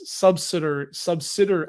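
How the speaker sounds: "subsidiary" cut short, groping for the wrong version; attempted mispronunciation. Shown as a demonstration. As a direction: try and fail to mispronounce "subsidiary". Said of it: "I can't even do it now".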